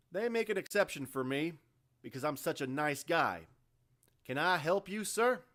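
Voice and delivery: loud, high mock-polite sneer; sarcastic. A narrator's reading. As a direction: sir him with open sarcasm. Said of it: "an air of sarcasm in the Marine's voice".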